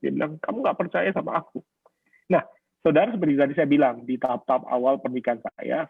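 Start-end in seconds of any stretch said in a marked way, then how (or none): 0.4-1.6 higher, understated crying complaint; imitated tearful wife. Crying wife accusing her husband, mildly mimicked as plaintive. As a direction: lightly mimic a wife in tears, pitched up. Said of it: "Dia tambah nangis".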